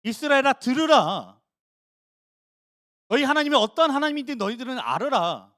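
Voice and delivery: put-on reciting the Shema to the children; Shema recitation. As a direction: proclaim it like a parent drilling it in. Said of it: "달달 외웠습니다".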